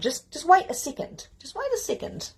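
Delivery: high, half-laughing plea to wait; urging a pause. Acted. Telling an eager generator to hold off, high and playful. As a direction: squeak it out as playful self-restraint. Holding back an urge to respond.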